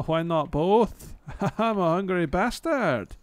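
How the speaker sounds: loud laughing Australian voice, high. Real, not acted. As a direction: cackle through the words in a mock Australian accent. Laughing loud at own joke.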